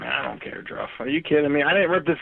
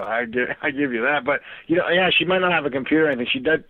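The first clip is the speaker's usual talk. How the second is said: talking while tipsy. Real, not acted. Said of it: "I'm pretty drunk right now, as you can tell".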